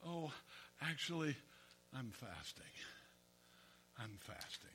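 soft, sorrowful sigh. Retold or imitated. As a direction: moan it out wearily. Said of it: "looking especially miserable".

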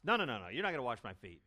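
fast, firm no-no-no telling-off; scolding. Retold or imitated. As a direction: lecture him briskly. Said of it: "he takes Jesus to class".

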